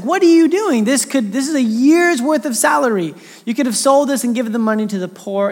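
imitating a high, sharp, indignant protest; angry retort. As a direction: act out an outraged disciple. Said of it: "he just gets mad".

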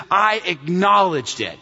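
"I acknowledged it" slowed for emphasis; emphatic. Acted. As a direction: lean slowly into "acknowledged". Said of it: "You see how emphatic he is here".

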